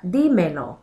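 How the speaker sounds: "dímelo" with the stress on DÍ; stress on first syllable. Shown as a demonstration. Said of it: "now I'm actually adding a written stress".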